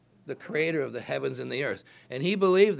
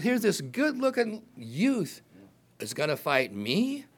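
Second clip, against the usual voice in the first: scoffing giant; 3 semitones higher than usual. Retold or imitated. Goliath scoffing at David.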